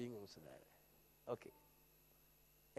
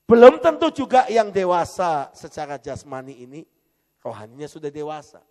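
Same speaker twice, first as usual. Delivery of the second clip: fiery preaching; 16 dB louder than usual. Acted. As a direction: thunder the question at the church. Preaching at full force.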